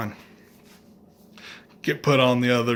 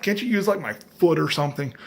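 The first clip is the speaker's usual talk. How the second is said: much higher, desperate plea; pleading; 5 semitones higher than usual. Retold or imitated. Patient begging the nurse to use his foot, in a high plea. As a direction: beg to avoid the needle in the neck. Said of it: "So I'm like".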